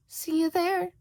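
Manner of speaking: loud, breathy whispered farewell; teasing cat whisper. Acted. Cheshire Cat vanishing, whispering slyly to Shota.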